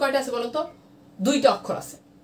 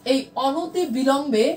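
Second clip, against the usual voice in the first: slow model; slower than usual. Shown as a demonstration. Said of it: "আপনি একটু বলেন তো".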